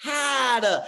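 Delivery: put-on slow, high old sage voice; playful Rafiki impression for the group. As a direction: stretch it out like the wise monkey. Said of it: "so he goes".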